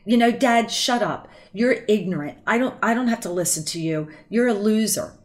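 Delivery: loud, bratty insults hurled at dad; child mouthing off. Retold or imitated. Child on the phone yelling insults at dad, loud and bratty. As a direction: sneer it like a rude kid. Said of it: "they're like".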